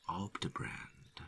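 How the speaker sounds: soft, slow, puzzled; quiet repeat. Acted. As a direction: Robbie repeating the strange word, softly. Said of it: "Robbie repeats".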